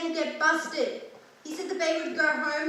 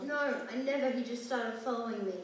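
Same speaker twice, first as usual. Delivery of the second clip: small scared voice; 8 semitones lower, 12 dB quieter than usual. Acted. Frightened child answering detective.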